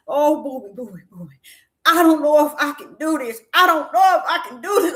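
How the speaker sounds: imitating her tearful wailing; mock sobbing, pitched high and loud by the end; crying wail. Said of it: "She in there just is crying".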